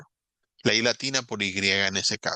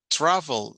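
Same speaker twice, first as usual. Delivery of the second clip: TRAVEL punched higher on TRA; first-syllable stress; 4 semitones higher than usual. Shown as a demonstration. Teacher showing students where the accent sits, first syllable stressed. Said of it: "el acento está al principio".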